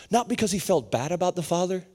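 ordinary delivery

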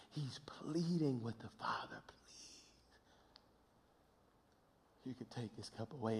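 soft whispered pleading; whispered plea. Acted. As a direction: whisper it like a desperate prayer. Whispered retelling of Jesus' plea.

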